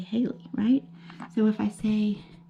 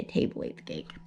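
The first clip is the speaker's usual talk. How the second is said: wrong example; 6 dB quieter than usual. Shown as a demonstration. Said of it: "Couldn't say".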